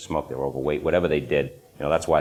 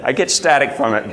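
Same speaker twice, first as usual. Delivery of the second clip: laughing; 10 semitones higher, 9 dB louder than usual. Real, not acted. Laughs about own accent.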